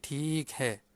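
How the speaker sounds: "Thik hai" with "Thik" stretched as "theek"; long EE vowel. Shown as a demonstration. Teacher modelling the longer sound, "Thik hai" with long EE. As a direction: hold the EE in "Thik" before "hai". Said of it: "dia panjang sikit".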